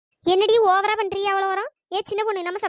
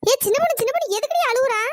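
calling out; 5 semitones higher, 5 dB louder than usual. Acted. Calling to crying friend.

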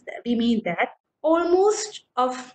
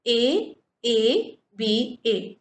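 A A B A, each letter drawn out slowly; slow spelled scheme; much slower than usual. Shown as a demonstration. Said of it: "This is how we find the rhyme scheme".

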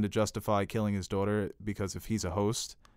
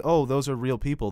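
slightly raised, understated mimicry; muted reaction, imitated; 4 semitones higher than usual. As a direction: imitate an oddly mild reaction. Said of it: "the way she said it".

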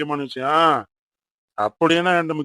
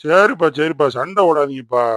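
raised voice breaking up a squabble; loud intervention; 5 dB louder than usual. Acted. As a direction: cut in loudly to stop the fight. Father breaks up children's quarrel.

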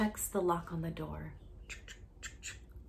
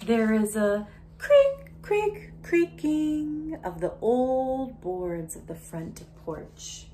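much louder, slow creak, creak; creaky sound words; 5 semitones higher, 12 dB louder, slower than usual. Acted. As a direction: draw out the creaks for suspense.

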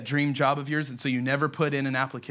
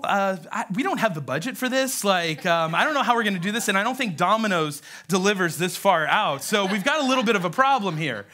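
halting, awkward objection; acted uneasy stalling; hesitant disciples; 2 semitones higher than usual. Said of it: "the disciples are probably like".

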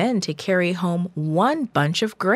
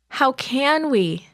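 higher, slow, doubtful complaint; complaining; 8 semitones higher, slower than usual. Acted. Discouraged spies answer Caleb, complaining. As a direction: whine the question in disbelief. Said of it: "the ten discouraged spies complained".

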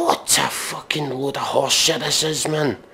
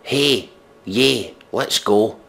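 mock girl voice; much slower than usual. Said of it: "She said".

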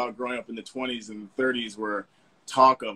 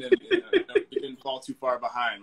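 laughing; 2 semitones higher than usual. Real, not acted. Laughs at own impression.

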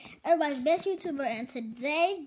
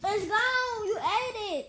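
accusing; 5 semitones higher, 4 dB louder, slower than usual. Real, not acted. Accusing sibling of eating candy.

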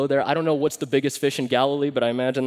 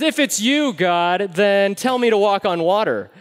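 calling out; 5 semitones higher, 6 dB louder than usual. Retold or imitated. Peter calling out to Jesus.

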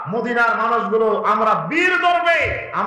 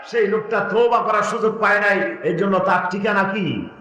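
impassioned preaching. Real, not acted. Preacher warns the congregation against despair, impassioned preaching. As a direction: preach it to a crowd, pressing them for answers.

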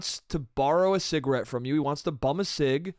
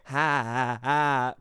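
townie chuckle; 5 semitones lower, much slower than usual. Retold or imitated. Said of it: "You'll start hearing".

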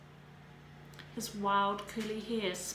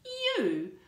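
high, loud shocked cry; shocked outburst; 14 semitones higher, 8 dB louder than usual. A narrator's reading. Melanie confronting Tarek, shocked high cry. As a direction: blurt it out in disbelief.

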